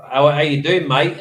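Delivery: casual Australian "mate"; Australian greeting, lightly imitated; Australian accent. Shown as a demonstration. Showing how Australians say mate, Australian accent. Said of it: "the Australians say it like".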